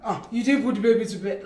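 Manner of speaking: imitating his disapproving tone, low; reproachful tone. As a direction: mimic a partner's reproach. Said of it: "do the impression of the tone".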